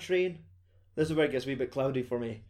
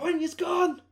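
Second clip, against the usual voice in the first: high shrieked mock yell, louder; violent outburst; 5 dB louder, slower than usual. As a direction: screech it out like a panicking passenger. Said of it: "there's violent outbursts".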